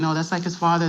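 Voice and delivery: retold line with a touch of Spanish accent; slight Spanish accent. Grandmother insisting nothing is wrong, slight Spanish accent. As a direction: raise the pitch and hint at a Spanish accent. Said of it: "in a little Spanish accent".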